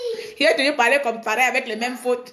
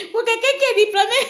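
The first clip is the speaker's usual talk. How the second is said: "Pour quelqu'un qui est diplômé" higher and faster through laughter; 10 semitones higher, faster than usual. Real, not acted. To her viewers, laughing hard at her own diploma. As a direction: crack up on the repeat. Repeats the self-mockery.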